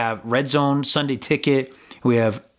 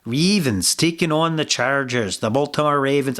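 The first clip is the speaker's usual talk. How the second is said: put-on Irish accent. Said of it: "I don't know why I'm doing it in an Irish accent".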